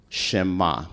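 Shema said as SHEH-mah, stress on the first syllable; Hebrew word. Shown as a demonstration. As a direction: say Shema slowly, falling at the end. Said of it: "It's spelled S H E M A".

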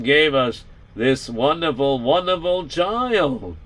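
light Yiddish-inflected father voice; a hint of an old-world father; Yiddish accent. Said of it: "he's starting to sound like his father".

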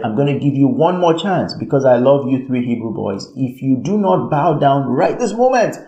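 imitated royal ultimatum, rising in pitch at the end; threatening. Nebuchadnezzar warning three Hebrew boys, threatening. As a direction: build a mock threat toward the final demand. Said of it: "You would hear the threatening voice".

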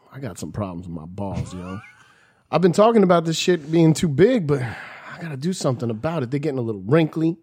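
a failing rapper impression that drifts Irish; bad rapper impression. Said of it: "That's a bad rapper impression".

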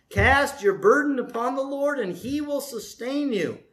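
measured reading of verses to the church, slowing at the close; scripture reading. Acted. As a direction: read the Psalm with weight. Reads scripture aloud to congregation.

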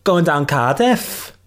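slow, sing-song Welsh attempt; Welsh accent. Shown as a demonstration. Guest attempting a Welsh accent for the host. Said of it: "can you do a Welsh accent?".

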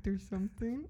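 words squeezed through clenched teeth; through gritted teeth. Retold or imitated. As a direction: talk with the jaw clamped shut. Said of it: "And I'm talking through my teeth".

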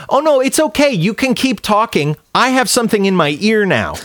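sickly polite brush-off; sarcastic politeness. Retold or imitated. Telling the chatty woman he has earbuds, fake sweet. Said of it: "told her".

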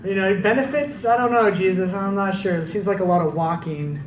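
hammed-up doubtful haggling; mock reluctance. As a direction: play a half-hearted recruit making excuses. Acts out Matthew doubting the offer.

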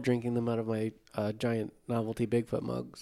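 trailing off into a whisper. Real, not acted. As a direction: drop to a sheepish whisper. Trailing confession about mugs.

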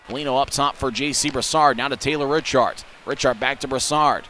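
rapid hockey play-by-play. Real, not acted. Live hockey radio call.

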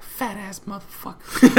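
high, slow mock nurse insult; retelling the nurse's jab, high and slow; mock muttered insult. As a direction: toss it off as a dry jab. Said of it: "She was like".

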